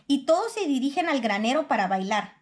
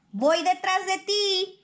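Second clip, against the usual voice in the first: calling out ahead; 7 semitones higher, slower than usual. A narrator's reading. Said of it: "le grita".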